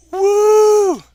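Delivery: high loud woo; cheer. Retold or imitated. Reading a viewer's cheer aloud, high excited whoop.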